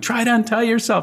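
very high, mock terrified scream. Retelling a recorded scene where a character screams to Blanky: imitating Deanna's terrified scream. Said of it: "She's screaming to Blanky".

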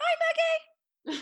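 very high-pitched voice. Retelling how Flora always greets on the phone: imitating Flora's phone greeting. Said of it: "Every time I talk to Flora on the phone, it starts like this".

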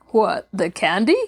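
light, playful, ribbing tease. Mr Black answers Betty's sigh, teasing. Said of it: "teased mr Black".

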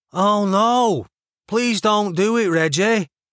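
Manchester accent with exaggerated, over-enunciated vowels. Someone interrupts a man's threat, pleading with him, in a Mancunian accent. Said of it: "over-enunciated vowels she was already learning were a signature feature of the Mancunian accent".

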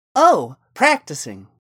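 very loud, proud, boastful voice. A girl answers the question of what she has been doing all week, proudly. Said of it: "the girl said quite proudly".

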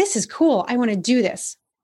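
put-on self-absorbed, self-centered tone with eager me-first energy. Imitating voicemail callers with a me-me-me sense to their voice: imitating a self-centered tone. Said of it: "it was a me, me, me sense to their voice".

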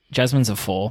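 ordinary talk, nothing marked

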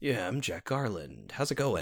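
very deep, soft voice with swooping pitch. Describing a game character's normal voice to friends: deep Jack Garland voice. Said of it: "he's just got this very deep".

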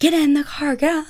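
mock screaming, shrill and pitched very high. Retelling a man walking quickly after them toward the hotel; retelling a man's scream. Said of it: "quickly walking towards us and screaming".

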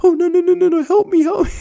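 very high, slow, fretful little cartoon mouse voice. Retelling seeing a mouse on a disc swing, imitating a worried cartoon mouse. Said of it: "it's looking like he's super worried".

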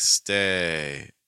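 "stay" drawn out very slowly. Explaining the moment before a t sound, the speaker says stay very slowly. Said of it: "I did it really slowly there".

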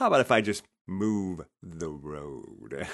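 slow, deliberate, self-satisfied smug drawl. Retelling a reply to a client with a smug delivery. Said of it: "Did you say it like that?".

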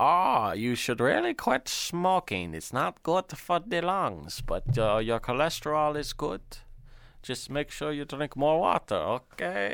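put-on German accent spoken through the nose. Imitating a guy they wish was their doctor, in a nasal German accent impression. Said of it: "He's very German".

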